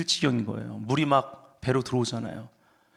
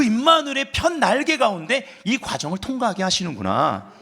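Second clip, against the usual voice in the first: high, loud, impassioned sermon delivery; fervent preaching; 6 semitones higher, 4 dB louder than usual. Real, not acted. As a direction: preach it with rising force, pitched high. Preaches with raised force. (열정적으로 높여 외치는 설교)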